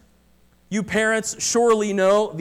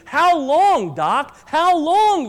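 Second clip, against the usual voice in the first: higher, louder desperate pleading; desperate plea; 7 semitones higher, 6 dB louder, much slower than usual. Acted. Dying man begging his doctor, higher and louder desperate plea. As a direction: beg the doctor for an answer. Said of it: "the man pleaded".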